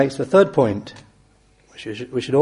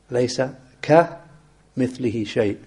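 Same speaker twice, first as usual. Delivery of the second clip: "ka" said alone between pauses in "laysa ka mithlihi shay"; ka set apart. Shown as a demonstration. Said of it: "the kaf occurring in the ayah".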